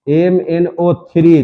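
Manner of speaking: एमएनओ थ्री spelled out slowly, letter by letter; slow repeat. Shown as a demonstration. Teacher drilling a formula for students, slow and clear.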